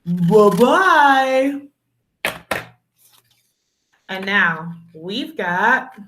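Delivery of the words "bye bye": sing-song bye-bye to the letters; magic goodbye. Shown as a demonstration. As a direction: wave the letters off cheerfully. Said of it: "Say the magic words so they go away".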